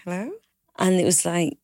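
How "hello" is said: a polite, friendly hello with a rising end; kind hello. Retold or imitated. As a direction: greet the caller nicely, lifting at the end. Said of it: "Very kind of like".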